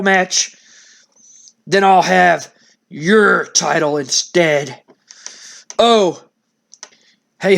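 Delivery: a villain's calm threat; menacing Sid. Retold or imitated. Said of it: "And Sid says".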